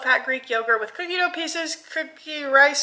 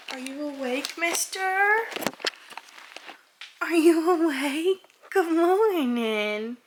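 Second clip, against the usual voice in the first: puppy voice; 5 semitones higher, slower than usual. Real, not acted. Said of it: "Sorry for the puppy voice".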